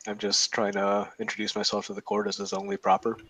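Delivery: put-on strong American accent. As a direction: speak with a broad American accent. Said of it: "she has a very strong American accent".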